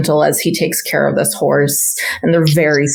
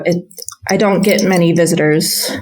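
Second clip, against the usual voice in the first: put-on nervous stable boy. Stable boy hesitantly agreeing to the stranger, stammering. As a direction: agree reluctantly, unsure.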